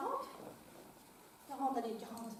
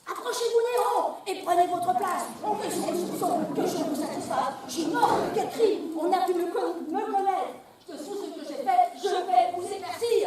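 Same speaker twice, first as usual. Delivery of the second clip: lighter, quicker, laughing declamation; less classical take. Acted. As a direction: rattle it off more casually. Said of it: "t'as dit trop classique?".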